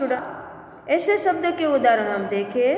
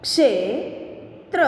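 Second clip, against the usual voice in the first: slow reading. Shown as a demonstration. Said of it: "अब इसका शब्द हम देखें".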